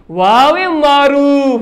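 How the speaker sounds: slow, drawn-out वाव मारूफ; teacher modelling the term slowly; slow answer. Shown as a demonstration. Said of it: "इसको आपको क्या कहते हैं?".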